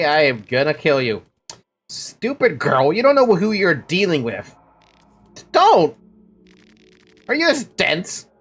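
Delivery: lightly voiced struggle, pitch leaping on the pleas; heated game quarrel. Streamer voicing a struggle between the woman and her attacker, hammed-up quarrel. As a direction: fight him off, panicky then spiteful. Acts out a fight in dialogue.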